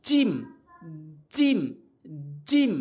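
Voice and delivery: জিম with mid-tongue against the palate; letter jim demo. Shown as a demonstration. Teacher showing learners the letter, careful জিম. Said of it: "তালুর সঙ্গে লাগাবো".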